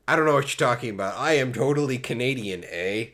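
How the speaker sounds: defensive fake Canadian "eh"; badly faked Canadian accent. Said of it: "That German accent?".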